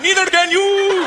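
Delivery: put-on very high, stretched-out accented yell; angry dad. Comic's dad shouting back at a driver, hammed-up angry yell. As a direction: fling a botched insult at full pitch. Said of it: "My dad".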